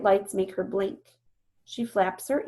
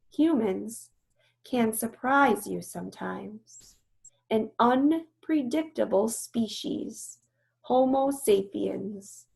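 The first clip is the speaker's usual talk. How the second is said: weary; slower than usual. Acted. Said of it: "She sounds weary".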